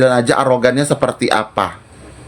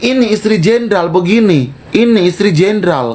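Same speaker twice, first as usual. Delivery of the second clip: retold mockery; 5 semitones higher than usual. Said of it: "aku bilang".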